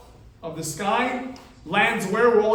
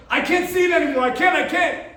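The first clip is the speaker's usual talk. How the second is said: higher-pitched, overwhelmed plea; mild acted panic; 6 semitones higher, 4 dB louder than usual. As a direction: act out an alien who can't bear to watch. Alien recoils in horror from gym.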